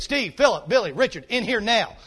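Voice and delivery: mock stern roll call; a hint of a stern father calling names. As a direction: call the boys in like a strict dad. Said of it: "It went something like this".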